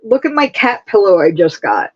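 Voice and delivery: ordinary delivery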